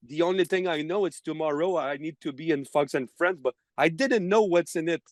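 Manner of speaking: put-on halting, heavily accented broken English; worst English accent. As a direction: feign poor English with a thick foreign accent, groping for words. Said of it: "taking my worst English accent".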